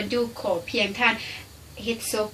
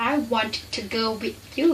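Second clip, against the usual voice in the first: slow demo; much slower than usual. Shown as a demonstration. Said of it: "คำนี้".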